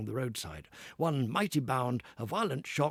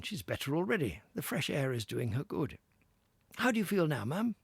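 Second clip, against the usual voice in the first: kindly gentleman; 5 semitones higher than usual. Acted. Gentleman speaking in story.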